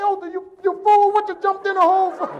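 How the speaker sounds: loud, high-pitched comic outrage; exasperated yelling. Acted. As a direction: yell at your foolish friend in disbelief. Acted outburst at friend in hole.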